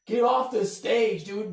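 mock yell. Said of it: "people are yelling at me".

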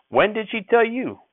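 high, slow demanding cry; demanding shout. A narrator's reading. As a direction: press the boy hard. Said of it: "Grandfather shouted at me".

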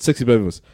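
put-on no gap between "baby" and "voice"; no pause after baby. Shown as a demonstration. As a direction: join "baby" straight onto "voice". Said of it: "If I don't pause after the baby".

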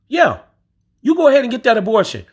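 high, fast mock voice; imitating white women. Mock impression of white women approving abortion. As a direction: put on a breezy white woman. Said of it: "no white women say".

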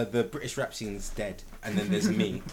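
laughing through a slow mock British rap line; mock British rapper. Mocking British rap to friends, laughing. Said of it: "what's that new one where it's like".

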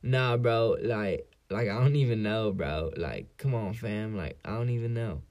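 mock the classmate's fake bro talk, lightly; bro voice impression. Kid in art class, imitating his bro voice lightly. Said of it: "this is how he talks".

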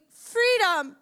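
high, drawn-out protest cry; imitated screaming. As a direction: call it out like the crowd did. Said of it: "they were fucking screaming".

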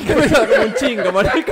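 high, slow laughing mock nasal voice; mock speech impediment, giggling; hammed-up nasal baby talk. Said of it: "vamos a besarla como un bebé".

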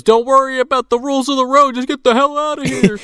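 mock frantic order; urgent Kenan. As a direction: hurry them out of there. Kenan urging escape in car.

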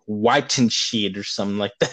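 fumbling Weitenstedt as waɪtənʃid with a rising, unsure tune; stumbling German name. Real, not acted. Co-host stumbling on a German name, mangled and unsure. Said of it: "what did you say to me right now".

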